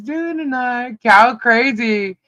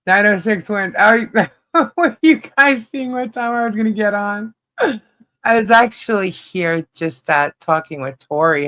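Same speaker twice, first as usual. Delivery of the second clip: metallic robotic sound on a laggy call; robotic, glitchy connection voice; 3 semitones lower than usual. Real, not acted. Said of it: "You sound robotic".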